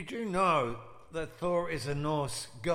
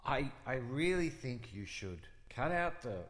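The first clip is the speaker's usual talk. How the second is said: put-on Brooklyn accent. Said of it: "Is your Brooklyn accent for real?".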